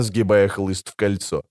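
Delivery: ordinary delivery, nothing marked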